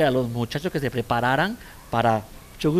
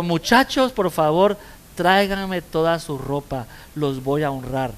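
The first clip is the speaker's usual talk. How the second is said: put-on calling out to the boys; 3 dB louder than usual. Mother calls to her sons.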